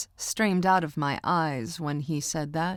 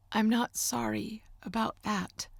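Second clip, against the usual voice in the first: quietly; 5 semitones higher, 5 dB quieter than usual. A narrator's reading. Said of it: "I said quietly".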